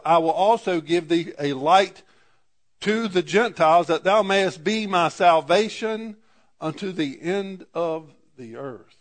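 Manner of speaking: measured, formal reading of the King James verses; scripture reading. Acted. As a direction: read the prophecy aloud to the congregation. Reads Isaiah aloud.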